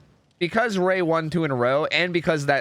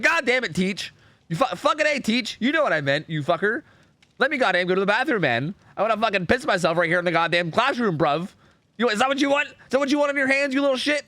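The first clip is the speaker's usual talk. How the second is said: hammed-up high-pitched pupil rant; exasperated child; 9 semitones higher than usual. Pupil desperate for bathroom berates teacher, high-pitched mock outrage. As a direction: plead and curse as a desperate kid, pitched high. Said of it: "that's how I talked as a five-year-old".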